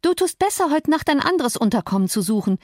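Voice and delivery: triumphant taunt, lightly played; almost triumphant. A narrator's reading. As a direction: crow it at him through the window. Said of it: "in fast triumphierendem Ton".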